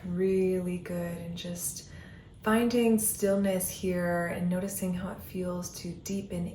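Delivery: soothing breath-by-breath guidance; guided meditation. Acted. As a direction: ease the listener into stillness, one breath at a time.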